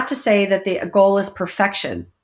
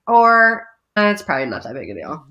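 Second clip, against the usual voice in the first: offhand shrug; 4 semitones lower, 3 dB louder, faster than usual. Pretend. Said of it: "making a decision".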